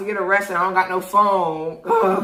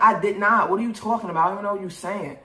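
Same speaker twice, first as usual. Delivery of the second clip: indignant denial; 3 semitones higher, faster than usual. Retold or imitated. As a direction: snap back, affronted. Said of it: "I was like".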